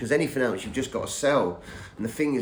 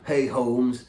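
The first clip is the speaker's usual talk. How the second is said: imitando levemente um sotaque Cockney jamaicano, um pouco mais agudo; a light Cockney Jamaican patois greeting with a drawl. Retold or imitated. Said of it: "Cockney Jamaican kind of".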